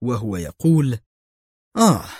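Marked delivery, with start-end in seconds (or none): 1.8-2.1 a high, pleased exclamation; mild relief and triumph on finding it; triumphant aah. A narrator's reading. Inspector finds the secret button, mildly triumphant. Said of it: "نم وجهه عن الراحة والفوز".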